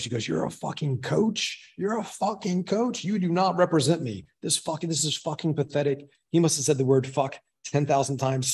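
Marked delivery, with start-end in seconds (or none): 0.3-6.1 mock yell at ordinary volume, pitched up and drawn out; retold screamed outrage. Boss berating a woman who calls herself a coach, mock yell. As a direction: imitate a furious boss, slow and incredulous, without shouting. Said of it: "screaming it".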